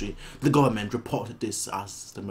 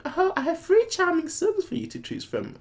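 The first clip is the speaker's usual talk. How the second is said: much higher, sing-song salesman; eager boastful king. Acted. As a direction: pitch your sons like a proud merchant. Reading eager king's offer.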